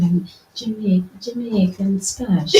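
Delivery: Jamaican accent. Shown as a demonstration. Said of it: "Do it one more time".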